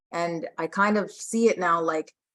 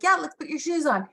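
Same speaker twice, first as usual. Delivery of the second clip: mock high sing-song mom; 11 semitones higher than usual. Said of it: "and then I'll be like".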